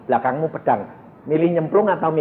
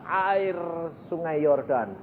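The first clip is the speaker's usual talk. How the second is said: God's command; 2 semitones higher, slower than usual. Acted. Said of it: "lalu Tuhan berkata kepada Musa".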